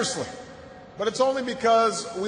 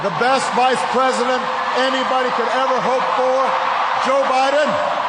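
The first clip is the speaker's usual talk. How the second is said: rousing; 3 semitones higher, 4 dB louder than usual. Real, not acted. Rousing introduction of Biden.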